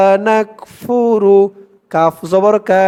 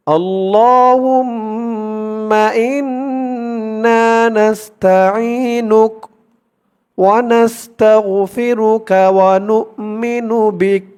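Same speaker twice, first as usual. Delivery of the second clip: very slow drawn-out Quranic chant; slow recitation; 2 semitones higher, much slower than usual. Shown as a demonstration. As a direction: recite each phrase stretched and measured. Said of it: "যেমন টান করব". (ধীর টেনে তিলাওয়াত)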